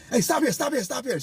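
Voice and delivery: high mock yell; retold yelling. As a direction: yell it high from the back seat. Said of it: "She yelling in the back of my ear".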